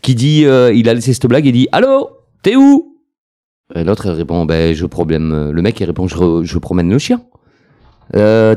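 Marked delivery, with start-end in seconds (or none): 1.7-2.9 high, lightly voiced caller; a touch of a suspicious wife; phone question. Wife calls her husband, lightly voiced. 6.1-7.2 low, lightly voiced reply; a hint of a guilty husband; husband's answer. Husband tells his wife he is walking the dog, low.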